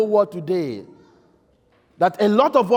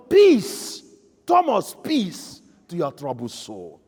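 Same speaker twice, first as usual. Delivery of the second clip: tender reassurance; 5 semitones lower, slower than usual. Acted. Jesus greeting doubting Thomas tenderly.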